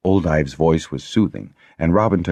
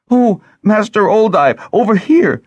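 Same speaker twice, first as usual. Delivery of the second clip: much higher, louder call; 7 dB louder than usual. A narrator's reading. Lessa calling Master Oldive over, loud and high. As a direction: call across the room urgently.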